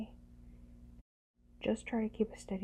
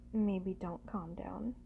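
ordinary delivery

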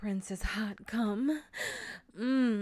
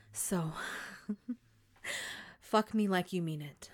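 ordinary delivery

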